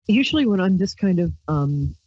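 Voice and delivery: ordinary talk, nothing marked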